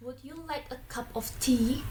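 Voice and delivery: "tea" lifted at the end; rising intonation. Shown as a demonstration. Teacher giving an example of a yes-no question, rising intonation. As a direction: let the pitch climb on "tea". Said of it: "rising action".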